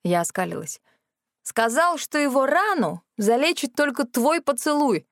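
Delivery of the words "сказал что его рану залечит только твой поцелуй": spelled out clearly, a little higher; clear and loud. A narrator's reading. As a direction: make sure everyone hears it. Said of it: "чётко и громко проговорила я".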